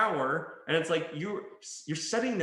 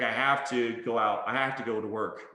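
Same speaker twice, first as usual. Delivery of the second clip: lower, mildly burdened statement; lightly acted duty-bound complaint; forced obligation; 4 semitones lower than usual. Worker feeling forced, mildly reluctant. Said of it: "That's how you sound".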